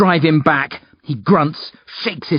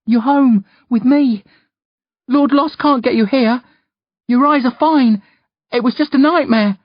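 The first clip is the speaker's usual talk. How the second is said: reassuring; 12 semitones higher, 4 dB louder than usual. A narrator's reading. Boy reassures uncle after nightmare.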